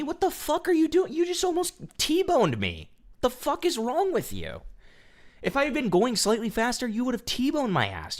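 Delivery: hammed-up outraged shriek at a bad driver; mock furious screech. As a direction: replay the screaming fit in a shrill put-on squeal. Retelling yelling at reckless driver.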